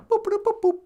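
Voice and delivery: high vocal boops; string of mouthed electronic chirps; imitated computer boops. Computer confirming the simulation's end, booping.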